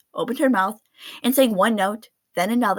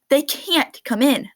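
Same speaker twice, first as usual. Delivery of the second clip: stern refusal; 5 semitones higher, 3 dB louder, slower than usual. Acted. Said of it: "the manager said".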